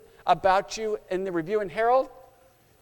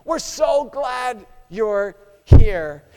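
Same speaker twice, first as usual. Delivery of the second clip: higher, louder shouted encouragement; cheering crowd shouting; 4 semitones higher, 5 dB louder than usual. Acted. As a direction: cheer him home like a stadium crowd. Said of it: "They start shouting".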